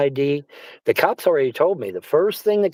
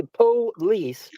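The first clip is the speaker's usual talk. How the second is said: slower; 3 semitones higher than usual. Shown as a demonstration. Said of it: "I say it so fast".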